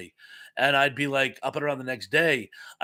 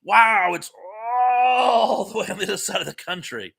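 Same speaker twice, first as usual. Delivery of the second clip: higher, louder wide-eyed wow; amazed kid; 7 semitones higher, 3 dB louder than usual. Retold or imitated. Retelling finding Oregon on a map as a kid, awestruck shout. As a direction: relive a kid's astonishment at the map. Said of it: "and I go".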